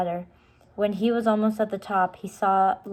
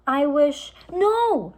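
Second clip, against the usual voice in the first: high, loud back-and-forth; quarrel; 8 semitones higher, 7 dB louder, slower than usual. A narrator's reading. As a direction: cut each other off. Quarrel between siblings.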